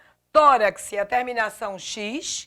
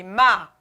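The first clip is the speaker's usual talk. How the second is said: "ma" said alone, lower; stressed syllable MA; 4 semitones lower, 4 dB louder than usual. Shown as a demonstration. Teacher showing students the strongest syllable, stressed "ma". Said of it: "qual é a sílaba mais forte".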